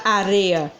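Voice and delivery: área said as a-RE-a; misplaced stress on RE; stress shifted to RE in área. Shown as a demonstration. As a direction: lean on RE, as in the wrong reading. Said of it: "eu vou ler areia".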